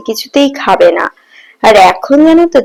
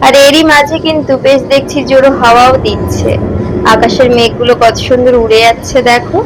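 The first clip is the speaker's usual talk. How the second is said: while brushing teeth. Real, not acted. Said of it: "চলে এসেছি ছাদে ব্রাশ করতে".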